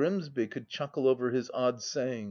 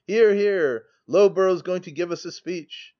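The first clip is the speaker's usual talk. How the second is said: higher, louder cheering; rowdy cheer; 5 semitones higher, 7 dB louder than usual. A narrator's reading. Drinking friends cheering on the speaker. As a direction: whoop it up for the speaker.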